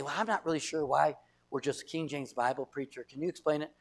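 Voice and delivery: soft, unassuming question; sincere question. Shown as a demonstration. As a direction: ask it quietly, just wanting to understand. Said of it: "There's two different tones".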